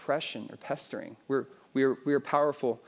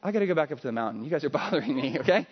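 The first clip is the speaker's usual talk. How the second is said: joking exasperation; faster than usual. Retold or imitated. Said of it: "And Jesus says".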